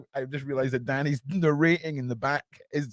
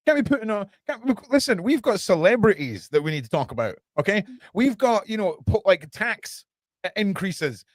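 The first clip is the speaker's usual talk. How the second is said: sarcastic cover-up voice; 3 semitones higher than usual. Acted. Sarcastic mock news denial.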